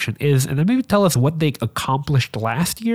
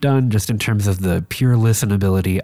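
stuffy nose; 2 semitones lower than usual. Real, not acted. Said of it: "You could probably hear that in my voice".

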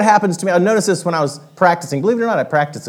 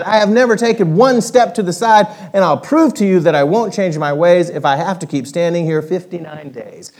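a touch of haughty pride; proud north-going Zax. Acted. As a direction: puff up and refuse to budge. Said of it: "said with north-going pride".

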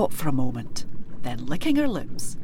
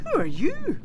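bold, higher, ringing voice; loud and clear; 10 semitones higher than usual. A narrator's reading. Big coo answers the kelpie boldly, loud and clear. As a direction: stand your ground and announce yourself. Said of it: "spoke loud and clear".

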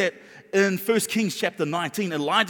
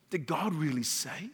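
devil sowing doubt; 3 semitones lower, 8 dB quieter than usual. Acted. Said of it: "He would say".

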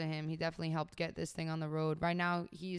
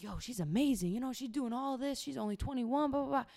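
higher, eager imitated gushing; gushing praise; 6 semitones higher than usual. CEO gushing to her mom, imitated eager and high. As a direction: rave about her like a fan.

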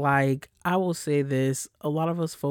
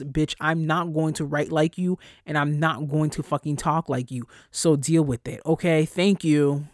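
louder, sassy telling-off; retold telling-off; 4 dB louder than usual. Scolding coworkers who want her to work their way, sassy. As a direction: put them in their place. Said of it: "to realize".

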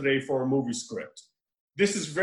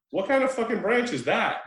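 incredulous; 5 semitones higher than usual. Retold or imitated. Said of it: "which I'm like".

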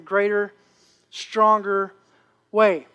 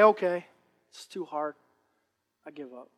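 softer, lower defeated sigh; mock giving up; 7 semitones lower, 8 dB quieter than usual. Preacher voices a quitter, fading soft and low. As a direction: let it sag into quitting. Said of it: "you just say".

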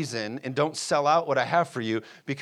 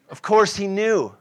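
laughing; 5 semitones higher, 5 dB louder than usual. Real, not acted. Preacher laughs at God's knowing.

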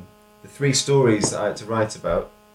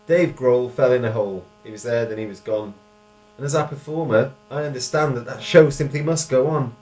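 poem recital; 3 semitones higher than usual. Shown as a demonstration. Reads own poem aloud.

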